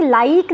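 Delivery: लाइक with a long ee, like laa-eek; wrong long vowel. Shown as a demonstration. Teacher rules out an option, लाइक with long ee. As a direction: draw out the i of लाइक into ee. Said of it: "ये बड़ी ई के लिए होता है".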